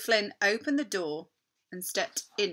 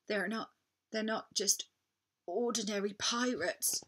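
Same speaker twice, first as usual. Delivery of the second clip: stammered; 3 semitones higher, 4 dB quieter than usual. Acted. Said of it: "he stammered".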